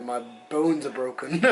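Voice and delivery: slowed, chuckling through the words; real laugh, half amused at the pain. Real, not acted. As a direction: laugh as you admit it. Joking about his injuries.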